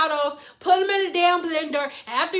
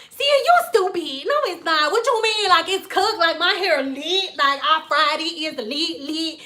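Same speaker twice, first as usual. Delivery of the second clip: put-on lightly raised Valley girl voice; mock Valley girl protest; 3 semitones higher than usual. Client disputing that her hair is cooked, mock Valley girl. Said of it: "this the same girl that's Valley girl".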